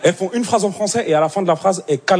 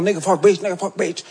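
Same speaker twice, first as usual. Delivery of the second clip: fake English. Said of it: "faire semblant de parler anglais".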